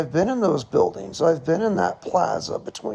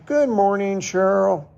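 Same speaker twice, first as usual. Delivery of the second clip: perky; 3 semitones higher than usual. Retold or imitated. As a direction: greet the grumpy coworker cheerily, lightly done. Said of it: "in a perky".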